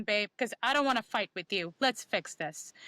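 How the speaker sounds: calm reconciling. Acted. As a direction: settle down and offer to make peace. Acted appeal to partner after calming.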